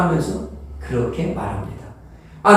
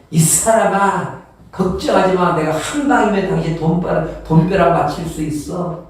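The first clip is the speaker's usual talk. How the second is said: confident husband. Retold or imitated. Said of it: "뭔가 자신 있게 말하지만".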